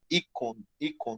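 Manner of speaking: "icon" said with an ee sound at the start, the modern Greek way, low and soft. Shown as a demonstration. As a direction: model "icon" as ee-kon for the class. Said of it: "no grego moderno você vai pronunciar icon". ("icon" dito como "i-kon", em voz baixa, à moda grega moderna)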